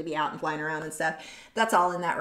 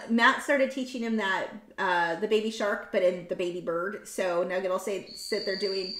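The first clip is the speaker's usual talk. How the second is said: ordinary talk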